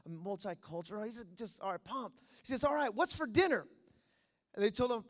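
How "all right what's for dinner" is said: acted eager question, pitched up; excited newcomer. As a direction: imitate an excited guest asking. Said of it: "he's excited".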